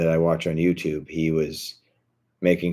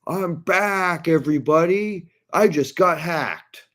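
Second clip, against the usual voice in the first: much higher, cheesy streamer voice; a mocking, much higher greeting to his viewers; mocking fake comeback; 11 semitones higher than usual. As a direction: chirp it like a smug streamer. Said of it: "he's like".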